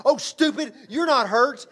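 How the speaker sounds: scolding wife. Retold or imitated. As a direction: swat him with words while giggling. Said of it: "she starts hitting me".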